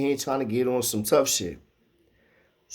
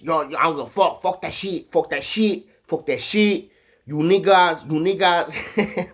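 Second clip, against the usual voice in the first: higher-pitched broken English, half-mocking; imitating broken English; 6 semitones higher than usual. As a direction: mimic his rough, broken English, pushed up high. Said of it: "he started talking with his broken English".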